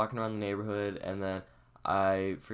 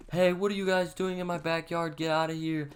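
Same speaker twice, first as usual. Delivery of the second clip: much higher imitation of an outraged neighbour; mock angry lady; 9 semitones higher than usual. Lady chasing kids from her backyard, mock angry. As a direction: scold trespassers in a put-on high voice.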